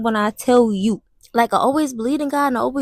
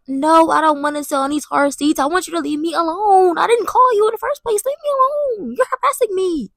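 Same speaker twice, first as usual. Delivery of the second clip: annoyed yelling; 5 semitones higher than usual. Retold or imitated. Retold yelling at family.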